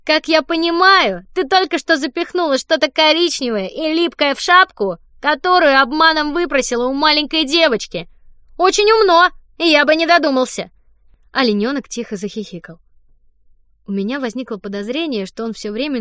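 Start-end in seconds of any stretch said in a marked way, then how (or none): 0.0-10.7 mocking boy. Don mocks Fanny for stuffing the hat, loud smug sneer. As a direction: savour every word of the accusation.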